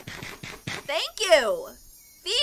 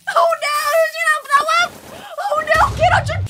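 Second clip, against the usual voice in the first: high, loud frantic squealing; shrieked alarm, pitched way up; playful panic; 11 semitones higher, 7 dB louder than usual. Real, not acted. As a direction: cry out in a comic panic. Playful panic as Steve wakes.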